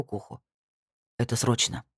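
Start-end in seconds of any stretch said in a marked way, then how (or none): 1.2-1.8 очень серьёзно, чуть ниже; собранно и серьёзно. Acted. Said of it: "невероятно серьёзным тоном".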